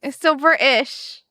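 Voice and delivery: jokey put-on British accent; amateur British, playfully insistent; attempted British accent. Shown as a demonstration. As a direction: defend your wobbly British accent in that accent. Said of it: "at least it's British".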